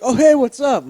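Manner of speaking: high, loud, fake-cheery hello; casual hello to the police; mock friendly greeting. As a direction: greet the cops like old pals. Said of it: "he's like".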